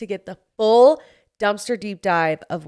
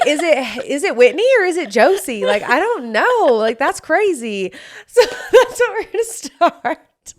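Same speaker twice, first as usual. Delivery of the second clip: hammed-up Southern accent, much higher and louder; playful fake Southern accent, laughing; 7 semitones higher, 6 dB louder than usual. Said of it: "do I sound like I could possibly be Southern".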